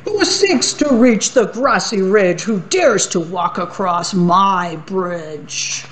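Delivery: booming troll riddle, slowing at the end; troll challenge. Acted. Troll calls up at the goat on his bridge. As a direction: demand it like the bridge is yours.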